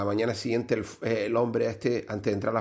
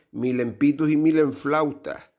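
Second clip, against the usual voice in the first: louder, slow punchline; slowed, louder payoff line; 4 semitones higher, 4 dB louder, slower than usual. Acted. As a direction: land the joke's last words. Punchline of joke.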